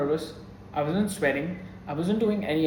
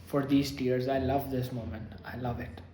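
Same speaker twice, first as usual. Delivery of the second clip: tearful yearning; 3 semitones lower than usual. Real, not acted. Vlogger moved by a film scene, tearful yearning. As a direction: savor the tears, fading to a near hush. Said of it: "I'm tearing up".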